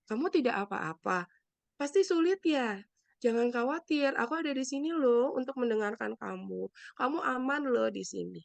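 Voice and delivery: calm, understated comforting; gentle reassurance. Shown as a demonstration. Helper comforting someone after a crisis, gently reassuring. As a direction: let them know they are safe. Models comforting words to a victim.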